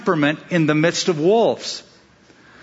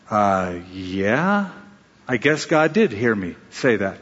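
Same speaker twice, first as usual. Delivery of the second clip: nervous father; 8 semitones lower, slower than usual. Retold or imitated. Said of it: "he got nervous now".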